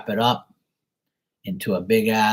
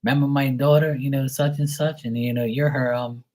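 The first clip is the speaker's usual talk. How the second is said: higher-pitched imitation of grandma; lightly voiced grandma introducing her grandson; grandma quote; 5 semitones higher than usual. Grandma introduces grandson to her sister, lightly imitated. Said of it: "She goes".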